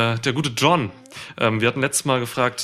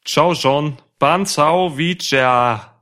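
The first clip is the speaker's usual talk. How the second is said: mock Vietnamese; 3 semitones higher, 5 dB louder, much slower than usual. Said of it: "ich muss Vietnamesisch machen".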